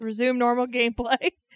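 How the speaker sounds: normal talking voice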